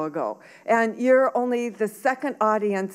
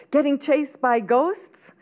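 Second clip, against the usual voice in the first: incredulous question; 6 semitones higher, 4 dB louder, slower than usual. A narrator's reading. Boy's incredulous question to teacher.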